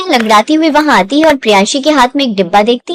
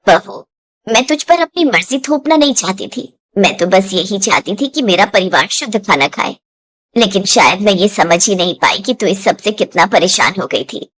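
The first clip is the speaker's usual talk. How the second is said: remorseful mother-in-law; 5 semitones lower than usual. Acted. Mother-in-law admits her fault.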